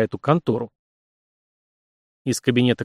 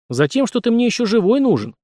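sudden growl; 10 semitones higher than usual. A narrator's reading. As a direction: snap it out as anger boils over. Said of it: "рыкнул Сашка, неожиданно вспылив".

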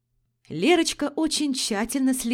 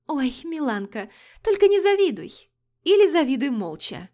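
high, loud catty retort; affected voice; 6 semitones higher, 5 dB louder than usual. A narrator's reading. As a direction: sneer it, coy and catty. Lera snapping back.

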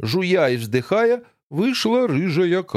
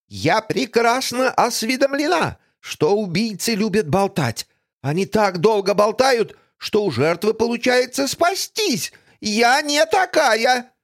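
haughty villainess; 8 semitones higher than usual. Acted. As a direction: lecture like a smug villain. Villain lectures. (надменная злодейка)

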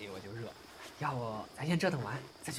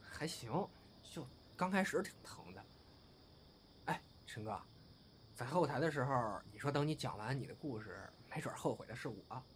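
much softer, drowsy intimacy; soft afterglow murmur; 9 dB quieter than usual. Acted. Lying beside his lover after sex, a soft murmur. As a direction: murmur it close and spent.

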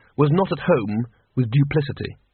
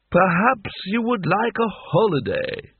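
hopeful; 6 semitones higher, slower than usual. A narrator's reading. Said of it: "a hint of hope in his voice".

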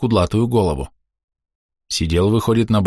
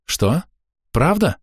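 surprised; 9 semitones higher, slower than usual. Acted. Mother surprised.

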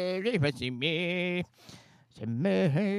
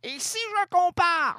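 grand tragic stage delivery; 11 semitones higher than usual. Pretend. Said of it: "La seule tirade au théâtre".

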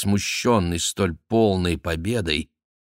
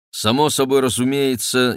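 ordinary delivery, nothing marked

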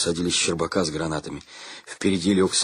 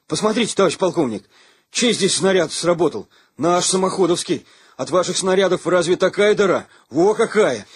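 higher, louder eager pleading; eager insistence; 9 semitones higher, 5 dB louder than usual. A narrator's reading. Lieutenant showing the colonel the hole, eager and loud. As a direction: prove it with boyish eagerness.

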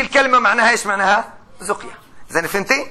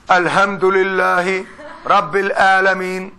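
Sudanese recitation; 4 semitones lower, slower than usual. Retold or imitated. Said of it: "إخوانا السودانيين".

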